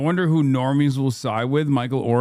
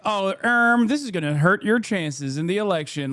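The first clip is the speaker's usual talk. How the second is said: feigned worry, opening high on "Oh, um"; mock insincere concern; 5 semitones higher than usual. Streamer acting out what Fox can't manage, mock insincere concern. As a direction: put on a fake concerned hedge. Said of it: "they can't even do the insincere".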